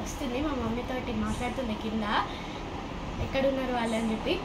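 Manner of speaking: hushed whisper under the bed; whispering while hiding. Real, not acted. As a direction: keep it whispered so nobody hears.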